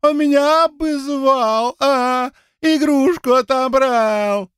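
высоким писклявым голосом, медленно ноя, как обиженный ребёнок; передразнить нытьё капризного ребёнка, высоко и тягуче; писклявое причитание. Acted. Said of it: "принялся причитать писклявым голосом". (Игорь передразнивает ссорящихся, писклявым детским нытьём)

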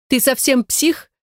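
high, slow shriek. A narrator's reading. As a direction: screech it at him in disbelief. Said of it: "взвизгнула Яна".

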